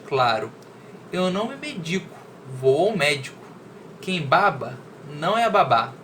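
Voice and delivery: measured, deliberate reading with pauses between phrases; poem read aloud. Acted. Teacher reading a wordplay poem to students, measured recitation. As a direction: recite it clearly, setting off each wordplay.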